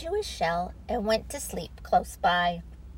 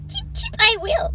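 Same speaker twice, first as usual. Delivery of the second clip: much higher, bright bird voice; chirpy blackbird; 13 semitones higher, 5 dB louder than usual. Acted. Blackbird offers Teddy a worm, high chirpy voice. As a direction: hop in as a cheerful little bird.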